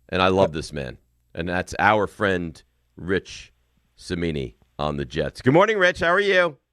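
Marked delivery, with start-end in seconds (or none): 5.4-6.5 overjoyed, bubbling, jubilant, pitched up. Greeting a guest after a big win: jubilant. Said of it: "I could hear the jubilation in your voice".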